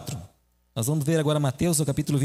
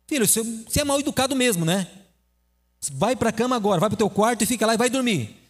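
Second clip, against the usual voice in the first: higher, mildly angry scolding; angry father; 4 semitones higher than usual. Acted. Father orders his son to bed, understated anger. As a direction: send the boy to bed with a mild mock temper. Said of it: "Aí o pai ficou nervoso".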